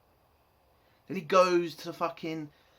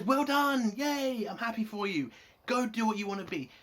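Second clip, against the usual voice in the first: higher, hammed-up cheerful; mock gushing praise; 5 semitones higher than usual. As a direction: gush like a fake-proud boss. Mocking the Bajoran officer's praise.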